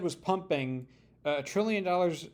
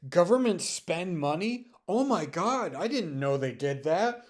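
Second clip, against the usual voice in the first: high, loud fake astonishment; sneering at the outrage; sarcastic mock shock; 4 semitones higher, 4 dB louder than usual. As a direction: gasp it out in mock horror.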